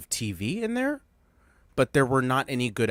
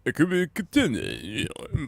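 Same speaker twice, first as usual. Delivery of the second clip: bad Southern accent; 2 semitones higher than usual. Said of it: "worst Southern accent I've ever heard".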